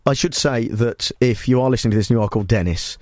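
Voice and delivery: low-pitched, mock-serious support announcement; earnest broadcaster's aftercare voice; solemn helpline notice. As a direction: offer listeners help with grave concern. Spoof helpline notice for listeners.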